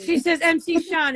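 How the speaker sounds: "Sean" with an open "ah" vowel; accented name. Retold or imitated. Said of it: "It's her accent".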